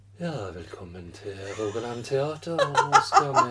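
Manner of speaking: soothing, mock healer-style voice.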